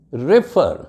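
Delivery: रेफर said as re-FER; short first syllable, stressed FER in रेफर; stress on second syllable. Shown as a demonstration. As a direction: lean on the end of रेफर. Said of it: "रेफर नहीं कहना".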